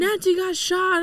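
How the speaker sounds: lightly voiced mother breaking it urgently; mom's urgent news.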